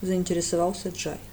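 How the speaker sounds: ordinary delivery, nothing marked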